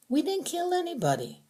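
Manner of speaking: accusing prisoner. A narrator's reading. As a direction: drag out the accusation. Prisoner denies killing.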